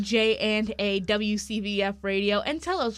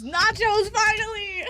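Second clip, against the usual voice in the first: thrilled, higher and louder; excited; 9 semitones higher, 4 dB louder than usual. Real, not acted. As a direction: cheer it out. Excited about getting nachos.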